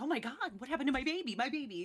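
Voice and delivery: fast, high, frantic mom wail; mother fussing over her hurt son; panicked mother. Acted. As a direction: rush it out like a frightened mother. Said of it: "She's like".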